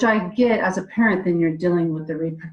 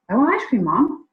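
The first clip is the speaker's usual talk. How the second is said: put-on child voice; 5 semitones higher than usual. Child's voice in retold story.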